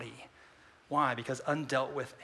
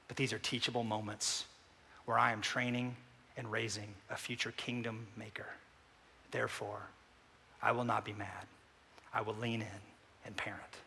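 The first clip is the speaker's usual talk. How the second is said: softer, humble model prayer; quiet prayer; 5 dB quieter than usual. Acted. Preacher modelling a gentle, quiet prayer to the Lord.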